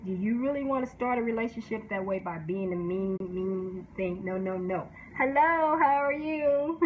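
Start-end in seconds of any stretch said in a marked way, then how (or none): 5.2-6.8 laughing greeting. Acted. Mock sweet greeting, laughing.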